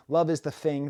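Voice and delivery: "thing" said as "fing"; TH fronting. Shown as a demonstration. Naming the London feature, "thing" said as "fing". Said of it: "That's called T H fronting".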